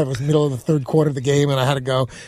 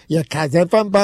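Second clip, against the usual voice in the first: put-on Boston accent. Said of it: "making fun of, like, the, the Boston accent".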